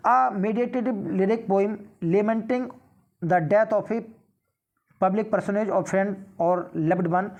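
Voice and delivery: reads the exam question aloud, very slow and deliberate; slow question reading. Acted. Teacher reading a quiz question to students, slow and measured. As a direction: spell out each word of the question for the class.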